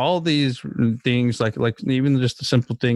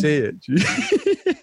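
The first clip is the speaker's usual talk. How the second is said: coaxing high voice. Retold or imitated. Dad urging son to swear.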